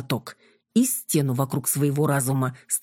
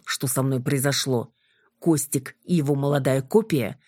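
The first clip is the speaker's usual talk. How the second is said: ordinary delivery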